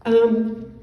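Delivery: a loud catching sob; real emotion breaking through in a loud catch; sudden loud tearful catch of breath; choked sob. Real, not acted. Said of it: "I'm sorry again to be so emotional".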